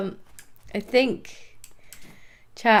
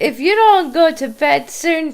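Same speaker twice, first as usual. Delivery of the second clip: raised stern parent voice; 7 semitones higher, 6 dB louder than usual. Acted. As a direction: scold like a parent. Teasing threat to go to bed.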